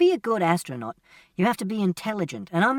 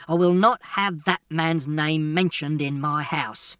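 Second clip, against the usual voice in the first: shouted; 3 dB louder than usual. Acted. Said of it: "Then he shouted".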